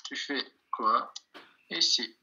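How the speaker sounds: slow "Tu fais quoi ici" with pauses; word by word. Shown as a demonstration. Teacher translating the question for learners, "Tu fais quoi ici" word by word.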